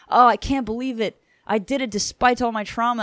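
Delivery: light hammed-up joy at success; mock elated. She finally succeeds, happy.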